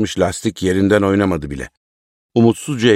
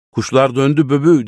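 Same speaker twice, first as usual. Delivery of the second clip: high excited call, moderately raised; joyful shout; 6 semitones higher, 4 dB louder than usual. A narrator's reading. Tahir shouting that birds are back, joyful mild shout. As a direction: call the good news, pitched high. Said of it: "diye bağırıyordu".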